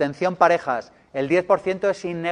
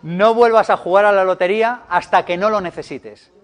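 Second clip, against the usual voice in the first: louder, insisting on each word; firm louder restatement; 3 semitones higher, 5 dB louder than usual. Shown as a demonstration. Speaker repeating his proposal to a protesting audience, louder and firm. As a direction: hold your ground and say it again, louder.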